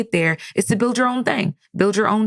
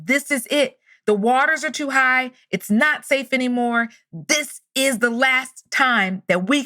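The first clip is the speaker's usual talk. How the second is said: urgent calling; 5 semitones higher than usual. Retold or imitated. Helicopter crew gives last chance to save him, calling. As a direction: press the last warning, drawing words out.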